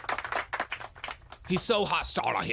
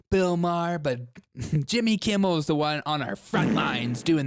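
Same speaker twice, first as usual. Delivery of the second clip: mock sarcastic inner rant. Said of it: "just thinking the whole time".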